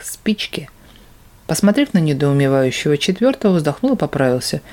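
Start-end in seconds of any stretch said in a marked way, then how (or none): 0.0-0.7 urgent whisper. Acted. Demon to the monk, whispered. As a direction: hiss it softly.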